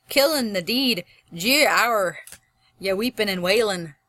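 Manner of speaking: lilting, lightly Scottish verse; Scottish accent. Shown as a demonstration. Teacher showing how dialect bends the voice, light Scottish accent. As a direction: let the Scottish dialect inflect the voice. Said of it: "your voice inflect in a certain way".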